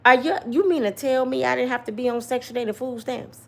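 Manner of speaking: lightly voiced incredulous TV judge; a hint of a courtroom judge scolding; mild judge-show disbelief; Judge Joe Brown voice. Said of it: "in my Judge Joe Brown voice".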